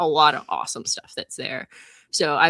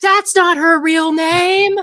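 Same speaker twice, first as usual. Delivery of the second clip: shrill, very high, full-volume scream; 14 semitones higher, 10 dB louder than usual. Retelling screaming at Starbucks after she gave her name, retelling a scream. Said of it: "and I just screamed".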